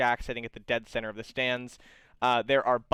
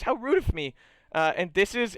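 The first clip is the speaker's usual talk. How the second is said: higher, mock-polite apology; apologetic guide; 6 semitones higher than usual. Guide realizing he never asked names, high mock-polite. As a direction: brush off the slip. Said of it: "and goes".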